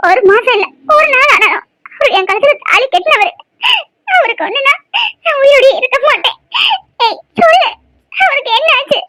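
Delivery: pleading through tears; sobbing out her words as she begs; crying. Acted. Wife crying, begging to know what happened to her husband. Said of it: "அழுவ நிப்பாட்டு".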